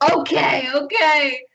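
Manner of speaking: tearful giving in. Acted. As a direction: give in through welling tears. Player acts tearful character giving in.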